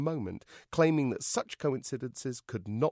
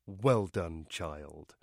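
beaming; 5 semitones lower, much slower than usual. A narrator's reading. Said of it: "The vicar beamed".

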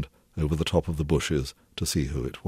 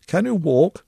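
each word crisply separated, higher and louder; very distinct; 13 semitones higher, 6 dB louder than usual. A narrator's reading. Hubert calling out to Cecil in the dark, crisp and distinct. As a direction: speak over a bad telephone line, very distinctly. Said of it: "he said, very distinctly".

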